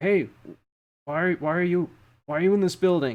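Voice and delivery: shouting. Voicing a distant voice that Father O'Shea hears, shouting. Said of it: "you also hear this shouting".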